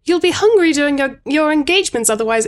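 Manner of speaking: lightly voiced Camilla stalling; Camilla's line. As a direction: play Camilla pleading. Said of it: "sounds like she's trying to not sleep with him".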